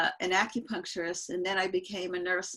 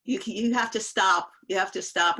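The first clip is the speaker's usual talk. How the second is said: retold emphatic plea, louder; urging to stop; 5 dB louder than usual. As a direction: press the warning home, imitating a worried intervention. Retold warning against overworking.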